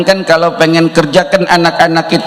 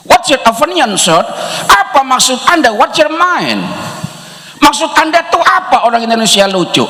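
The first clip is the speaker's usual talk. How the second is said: raised questioning; 8 semitones higher than usual. Retold or imitated. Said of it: "asking the Australian back".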